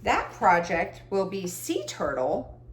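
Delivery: slow, drawn-out announcement of the pick; odd drawn-out announcing voice. Real, not acted. To her viewers, announcing the next project in a slow drawn-out voice. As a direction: stretch the words like a game-show reveal. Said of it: "I don't know why I'm talking like this".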